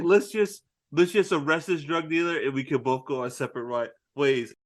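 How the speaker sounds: understated imitation of calm reasoning; trying to be calm. Marcus talking Mike down, mildly acted calm. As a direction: play it evenly, keeping the peace. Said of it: "just trying to be calm".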